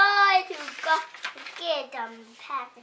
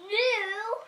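rising to a squealing shout; building excited shout; 9 dB louder, much slower than usual. Real, not acted. Child revealing the toy's new helmet, building to a loud squeal. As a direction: climb each new higher until helmet bursts out.

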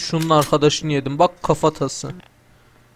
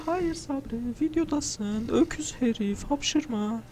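much higher, softer mock voice scolding himself; squeaky self-scolding; 9 semitones higher, 8 dB quieter, slower than usual. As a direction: talk to yourself in a high, hushed mock voice. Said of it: "Hapşırmamam lazım". (hapşırmamak için kendine ince sesle takılan oyuncu, yarı şaka azar)

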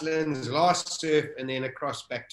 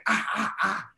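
high, open cries on each breath; imitated pained cries; 4 semitones higher than usual. Swimmer re-enacting breathing out salt water, imitated cries. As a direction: cry out in short repeated bursts. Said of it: "I was going".

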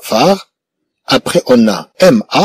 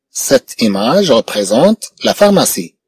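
slow, careful teacher repeat; slow model repeat; slower than usual. Shown as a demonstration. Teacher repeating the sentence slowly for pupils, careful and slow. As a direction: say it slowly for the class.

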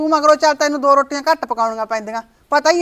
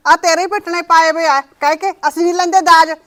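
scolding; 2 semitones higher, 4 dB louder than usual. Acted. Mother scolding her son.

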